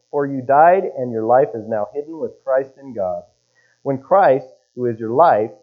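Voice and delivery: measured, deliberate Bible reading; scripture reading. Acted. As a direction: read scripture aloud with weighted phrases. Reads scripture aloud.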